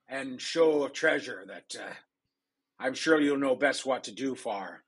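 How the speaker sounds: a lightly voiced pirate captain, proud. Pirate captain presents a spy to the queen, swaggering. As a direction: sell her off with a swaggering pirate flourish. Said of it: "I say".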